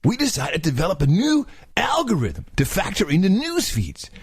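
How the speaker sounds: surfer voice. Shown as a demonstration. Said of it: "Oh, yeah, that's it".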